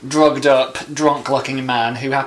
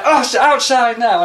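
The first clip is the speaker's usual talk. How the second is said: mock threat; 9 semitones higher, 4 dB louder, slower than usual. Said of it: "he's like".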